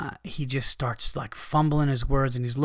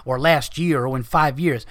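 casual shrug. Retold or imitated. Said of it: "he said it like you didn't know".

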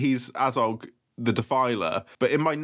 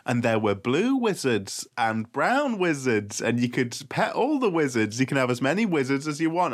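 Of Mice and Men storyteller. Acted. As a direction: spin it out like a comforting tale. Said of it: "of Mice and Men".

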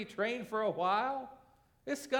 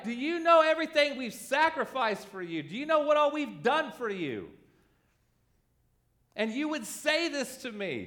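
higher, louder indignant parent; wounded parent; 5 semitones higher, 4 dB louder than usual. Retold or imitated. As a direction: let the hurt spill out as reproach. Hurt parent answering child's insult.

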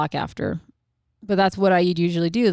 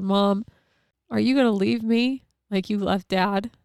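higher, mildly tearful imitation of a child; retold tearful child; 4 semitones higher than usual. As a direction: ask Mom as a hurt child, lightly imitated. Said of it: "just crying".

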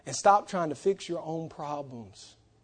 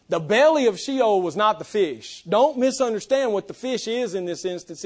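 raised pulpit voice; insistent sermon delivery; emphatic preaching; 4 semitones higher than usual. Real, not acted. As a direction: press the correction on the congregation. Preacher at full force.

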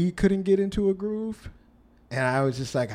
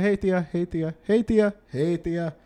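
calling out; 3 semitones higher than usual. Retold or imitated. Repeated calling to aunts.

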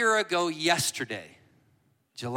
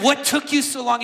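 retold plea; 8 semitones higher, 8 dB louder than usual. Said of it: "he starts weeping and he says".

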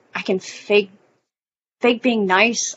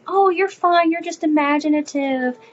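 higher, breezy brush-off voice; dismissive reassurance; 7 semitones higher, slower than usual. Retold or imitated. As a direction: brush it off lightly, pitched up. Quoting people dismissing hallucinations.

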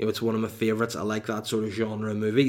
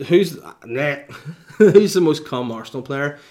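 laughing; 3 semitones higher, 7 dB louder than usual. Real, not acted. Laughs reading a rude question.

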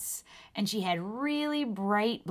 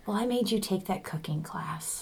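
whisper. Acted. Wife whispering back to her husband about the cooking class. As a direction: keep it a private whisper. Couple whispering to each other.

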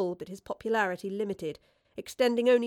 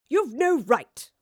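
high, drawn-out yell of protest; 5 semitones higher, 8 dB louder, much slower than usual. A narrator's reading. Woodliffe robbed of his purse, yelling. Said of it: "Woodliffe yelled".

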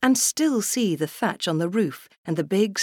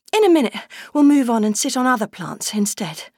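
put-on high, gentle little girl reassuring a plant; girl's comforting voice; 5 semitones higher, 5 dB louder than usual. Little girl to the plant she sat on, tender and high. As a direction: soothe the plant like a kind small girl.

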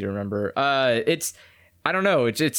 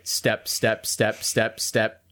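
deadpan sound effects; much slower than usual. Pretend. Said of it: "I want him to just say them".

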